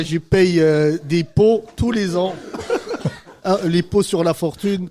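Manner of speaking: "pots" said for impôts, the "im" dropped; missing syllable. Pretend. Host griping in jest about taxes, impôts shortened to "pots". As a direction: clip impôts to "pots", joking along. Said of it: "la syllabe qui manque".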